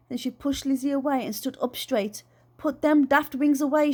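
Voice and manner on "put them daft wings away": commanding. Acted. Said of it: "she commanded".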